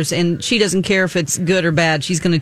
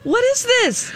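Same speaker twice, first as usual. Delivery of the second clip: Iris. Retold or imitated. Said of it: "She's like".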